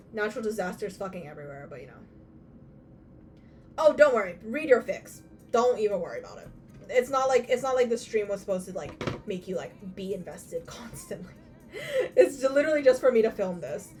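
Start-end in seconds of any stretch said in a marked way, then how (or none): 3.8-10.0 sarcastic. Real, not acted. Sarcastic loud remark. 10.0-13.9 laughing. Real, not acted. Laughing while talking.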